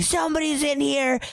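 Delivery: mock panic, pitched well up; panicked girl. Retelling the girl telling her parents, high mock panic. Retelling the crying girl's alarm.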